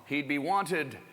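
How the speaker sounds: slow announcer build-up; emcee intro. Acted. Host introducing next comic to crowd, slow emcee read. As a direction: introduce the next act, slowly.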